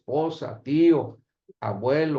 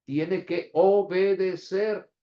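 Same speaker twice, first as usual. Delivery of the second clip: "obedecer" stretched out syllable by syllable, higher; slow, raised, deliberate "obedecer"; stress on obedecer; 4 semitones higher, slower than usual. Real, not acted. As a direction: spell out "obedecer" slowly for emphasis. Stresses obeying against repeating.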